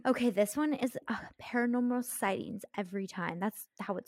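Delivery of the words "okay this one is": whisper. Acted. Starting next spooky story.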